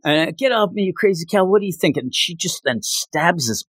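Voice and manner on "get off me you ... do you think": villain snapping. Retold or imitated. Villain quote, voiced fast.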